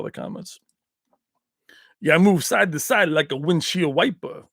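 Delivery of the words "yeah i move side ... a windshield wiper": lightly voiced boxer with slurred vowels; a hint of punchy street fighter; Rocky impression. Quoting boxing lines to viewers, light Rocky impression. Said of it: "Do Rocky".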